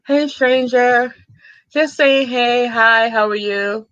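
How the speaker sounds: slow, stretched "Hey, stranger"; hammed-up reading of his hello; mock drawn-out greeting. Reading out the stranger's message, slow and mocking.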